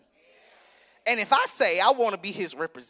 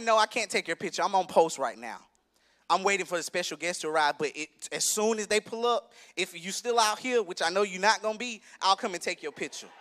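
calm, courteous refusal; a mild, patient retold no; polite explanation; 4 semitones lower, 3 dB quieter than usual. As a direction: let her down gently and politely. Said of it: "I ain't say it like that".

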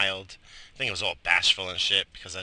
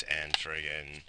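whisper; 4 semitones lower, 5 dB quieter, slower than usual. Real, not acted. Trailing complaint.

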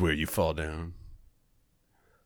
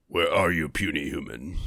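booming arrogant alien overlord; 5 semitones lower than usual. Retold or imitated. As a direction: sneer it like a giant brute. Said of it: "does all the sounds".

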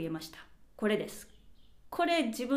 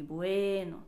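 stretched bueno; 2 semitones lower, slower than usual. Shown as a demonstration. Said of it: "めっちゃ伸ばして、ちょっとトーン低めに".

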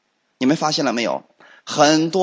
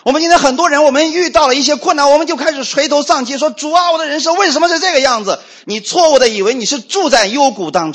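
fervent preaching; 7 semitones higher than usual. Acted. Preacher urging the congregation in a fervent, raised voice. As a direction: press the hope home to the flock.

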